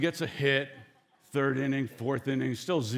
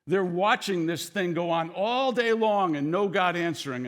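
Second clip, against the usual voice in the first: ordinary talk, nothing marked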